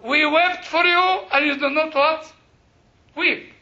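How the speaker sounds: quoting Jesus to the class with a touch of mockery; mock sarcastic quote. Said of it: "this is sarcasm".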